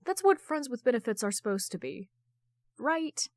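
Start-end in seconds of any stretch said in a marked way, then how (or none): 2.8-3.3 high rising doubtful question; a knowing, teasing question; rhetorical right. A narrator's reading.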